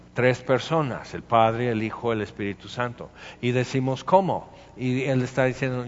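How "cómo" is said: higher, puzzled exclamation; baffled question. Acted. Believers puzzled by the Trinity, baffled question. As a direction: ask it in mock bewilderment. Congregation's puzzled reply to doctrine.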